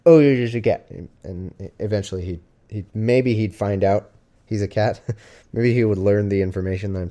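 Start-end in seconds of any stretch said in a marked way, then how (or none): 0.1-0.9 a touch of cooing at the cat. Shown as a demonstration. Owner showing how she coos at her cat. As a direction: coo it like talking to a pet. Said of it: "that's what I would do with my cat all day".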